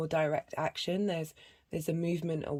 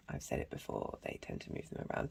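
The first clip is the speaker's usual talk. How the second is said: breathy under-the-breath whisper, much softer; whispered aside; 13 dB quieter than usual. Real, not acted. Reader whispering a private aside to viewers about shifting card placements. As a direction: drop to a whisper as if talking to yourself.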